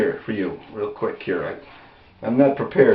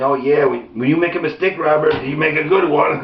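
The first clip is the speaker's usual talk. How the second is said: put-on good old boy; 3 semitones higher than usual. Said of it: "all these good old boys are sitting around".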